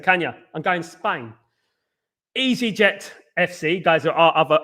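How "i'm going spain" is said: casual Cockney "Spain"; relaxed, throwaway Cockney delivery; Cockney accent. Shown as a demonstration. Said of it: "can't say Spain without a Cockney accent".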